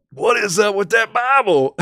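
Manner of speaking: laughing quote. Retold or imitated. Repeats his own quote, laughing.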